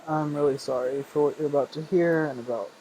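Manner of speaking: laughing through hiccups; giggly hiccupy talk; hiccups while laughing. Real, not acted. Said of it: "I have the hiccups".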